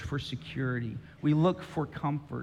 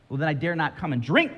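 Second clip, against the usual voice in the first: Jill backing away; 3 semitones higher, 4 dB louder, faster than usual. Retold or imitated. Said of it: "says Jill".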